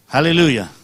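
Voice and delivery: loud ringing Aleluya, falling at the end; shouted aleluya. Real, not acted. Preacher to congregation, shouted Aleluya. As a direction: call out Aleluya to the whole church.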